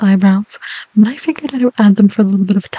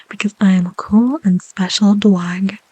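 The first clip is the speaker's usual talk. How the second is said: whisper. Real, not acted. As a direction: breathe the words gently. ASMR whisper.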